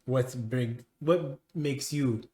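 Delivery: a hint of a probing official; measured, halting questioning in character; lightly voiced haughty master. Master questions a stranger about their business, lightly haughty.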